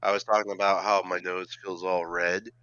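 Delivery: stuffy voice from a cold; sick with a cold. Real, not acted. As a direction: talk like you've got a cold. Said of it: "A little bit under the weather tonight is the speaker".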